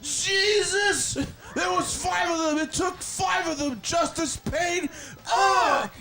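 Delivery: squeaky Bentley shouting a crazed wrestling promo. Acted. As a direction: shriek the wrestling promo like a frantic little buddy. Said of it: "I'll do it in my Bentley voice".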